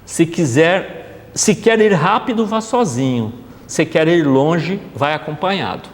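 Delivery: slow, measured proverb recitation; slow reading of an African proverb to the audience; reciting a proverb. Shown as a demonstration. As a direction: savor each half of the saying slowly. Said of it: "Um provérbio africano".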